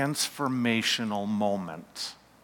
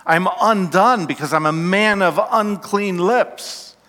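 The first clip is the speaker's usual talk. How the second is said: crying out; 2 semitones higher, 4 dB louder than usual. Acted. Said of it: "he cried out".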